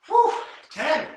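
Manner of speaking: strained exhale. Real, not acted. Effortful last rep.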